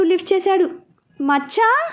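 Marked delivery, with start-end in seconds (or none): 1.2-1.9 higher, mild excited call; shouting. A narrator's reading. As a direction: call out to an old friend, lightly raised. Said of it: "అంటూ గట్టిగా అరిచాడు". (స్నేహితుడిని గట్టిగా పిలవడం)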